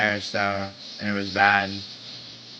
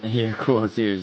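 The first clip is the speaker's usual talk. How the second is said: laughing through it, slowly; slower than usual. Real, not acted. Repeating the compliment to a friend, laughing. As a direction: chuckle the words out slowly. Laugh heard, slower retake.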